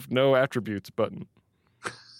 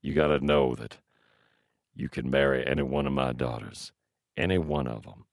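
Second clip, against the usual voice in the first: put-on old man voice; 10 semitones lower, 4 dB quieter than usual. Old man offering his daughters.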